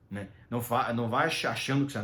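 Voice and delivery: ordinary delivery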